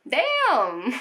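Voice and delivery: playful wail of dismay; mock-weepy damn. Real, not acted. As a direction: pretend to be shaken, then laugh it off. Reacting to violent childhood book.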